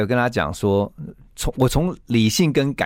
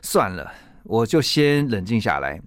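calming down; 3 semitones lower, slower than usual. Retold or imitated. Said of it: "突然就想说".

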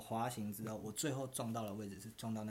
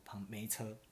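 whispered thought; 2 semitones lower, 6 dB quieter, slower than usual. Retold or imitated. Retold thought while riding.

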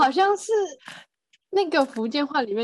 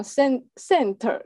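Italian-accented English; much slower than usual. Shown as a demonstration. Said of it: "会这样读".

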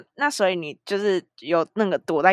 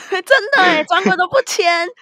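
higher, laughing agreement; 11 semitones higher, 6 dB louder than usual. Real, not acted. Laughing agreement about tickets.

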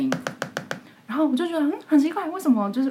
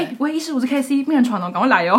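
bossy nurse on phone; 4 semitones higher, 5 dB louder than usual. Retold or imitated.

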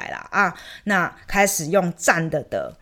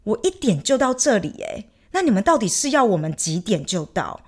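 higher, heated complaint at the clerk; retold angry rant; 5 semitones higher than usual. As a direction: vent the fury of waiting all night. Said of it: "我现在就想要泼屎泼尿在你脸上". (向外事局职员激动抱怨，声音偏高)

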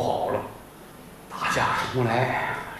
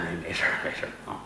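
subdued reply; 9 semitones lower, 8 dB quieter, much faster than usual. Acted. Boss quietly brushing it off.

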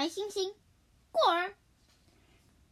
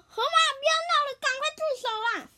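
urgent pleading; 10 semitones higher, 6 dB louder, much faster than usual. Acted. Mouse begs hippo to stop.

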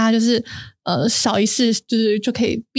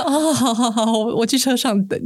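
startled dad. Retold or imitated. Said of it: "我爸就也吓到".

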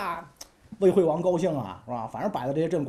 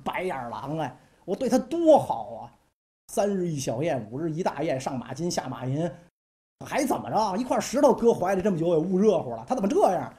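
furious king. Acted. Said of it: "火冒三丈啊".

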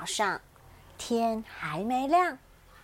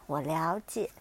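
soft comforting; 4 dB quieter than usual. Acted. Bear comforts the giraffe.

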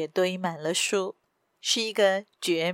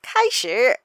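loud, curt villain's order; commanding; 3 semitones higher, 6 dB louder than usual. A narrator's reading. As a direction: give the order to begin in a raised voice. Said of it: "那人又命令道". (高声命令)

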